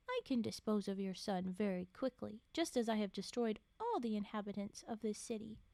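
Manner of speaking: steady read-aloud storytelling voice; measured storybook reading; story narration. A narrator's reading. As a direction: read the tale to a listener.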